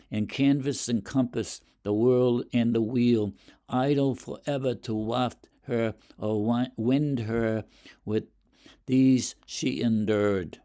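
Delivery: light recital tone; poem reading. Shown as a demonstration. Teacher quotes the poem lines.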